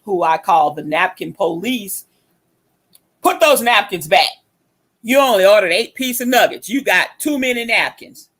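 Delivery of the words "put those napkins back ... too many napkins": mock scolding, pitched a bit high; retold yelling. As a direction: imitate an old napkin enforcer telling someone off. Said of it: "Yelling and screaming at me".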